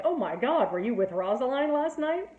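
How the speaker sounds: playfully scandalized friar; horrified friar. Retold or imitated. Friar hearing of Romeo's night, mock horrified. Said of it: "the friar is horrified".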